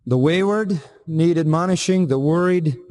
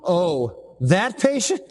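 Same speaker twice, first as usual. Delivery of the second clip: mock surprise; much slower than usual. Mock astonished listener.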